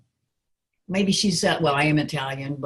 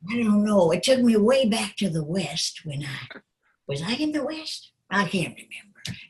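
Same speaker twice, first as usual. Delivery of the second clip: lightly voiced muddled old woman, fading to a whisper; a touch of a confused granny trailing off; forgetful old lady; 3 semitones higher than usual. Shown as a demonstration. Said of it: "as an older lady".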